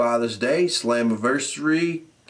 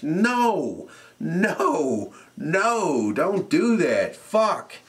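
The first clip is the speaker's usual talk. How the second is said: high, hammed-up chorus of no; mock outburst; 5 semitones higher, much slower than usual. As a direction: yell it back like a fed-up fan. Answering own question about entrance music.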